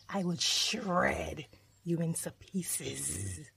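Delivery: slow, slightly menacing wolf voice; threatening wolf. Acted. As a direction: stretch out the threat slowly.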